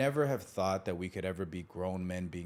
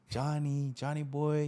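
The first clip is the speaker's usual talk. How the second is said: coaxing call; 6 semitones higher, slower than usual. Retold or imitated. Brother approaching with hands behind his back, coaxing call. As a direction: imitate a brother gently calling the little one.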